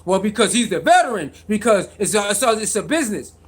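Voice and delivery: fast, low mock of the critics' excuse; mocking what everybody else says, fast and dismissive; mocking the critics. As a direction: rattle it off like a know-it-all pundit. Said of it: "You sound just like them".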